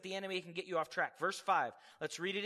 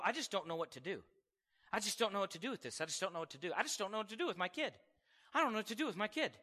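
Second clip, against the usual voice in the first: imitating a worried believer's softer whine; mock fretting; 5 dB quieter, much faster than usual. Preacher mimics anxious believer, softer fretting. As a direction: mutter helplessly over and over. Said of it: "look at that subject and go".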